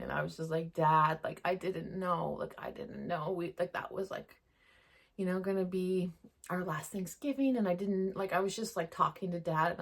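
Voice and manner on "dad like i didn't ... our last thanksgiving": softer, hushed, mildly tearful; a quiet hint of crying to her late dad; retold tearful plea. Talking to her late dad while crying, softer. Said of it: "I just was crying".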